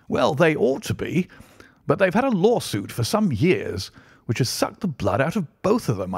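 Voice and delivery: genial country Colonel. Acted. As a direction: swing the pitch up as you share local news. Narrator voices the Colonel in conversation.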